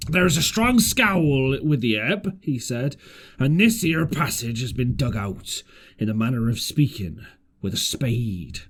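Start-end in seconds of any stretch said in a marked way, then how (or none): 0.1-2.4 a lightly voiced old seaman explaining; easy, knowing sailor talk; a hint of Long John's rough sailor voice; old sea cook. Long John speaks aboard ship. 3.4-8.6 a lightly voiced old seaman explaining; easy, knowing sailor talk; a hint of Long John's rough sailor voice; old sea cook. Long John speaks aboard ship.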